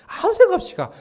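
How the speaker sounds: just go, shouted high and loud. Real, not acted. Preacher shouting at the congregation to just go. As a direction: bellow it at the congregation.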